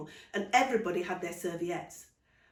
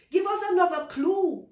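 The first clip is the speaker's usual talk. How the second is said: put-on high, loud pleading child; begging child; 11 semitones higher, 9 dB louder than usual. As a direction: beg like an eager little boy. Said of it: "Nico begged".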